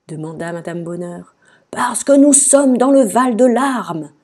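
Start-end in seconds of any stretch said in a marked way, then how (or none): 1.7-4.1 high, loud, slow wail; wailing moan. A narrator's reading. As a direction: moan it out as a tearful king. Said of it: "gémit le roi". (gémissement plaintif et sonore)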